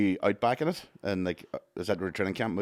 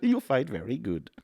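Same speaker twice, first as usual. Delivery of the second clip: Stephen Hawking impression; 4 semitones higher, slower than usual. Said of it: "Was that your Stephen Hawking impression? That was fucking terrible".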